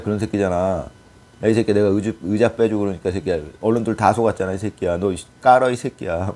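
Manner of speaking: hammed-up rough telling-off, curses tossed in; mock rough scolding. Imagined leader berating a politician in private, mock rough scolding. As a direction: imitate an angry tirade, mildly heated. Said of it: "과격하게 이렇게 표현을 하는 거죠".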